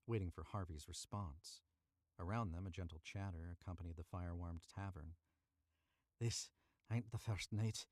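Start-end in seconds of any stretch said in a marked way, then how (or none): 6.2-7.9 growl. Acted. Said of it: "he growled at Jack".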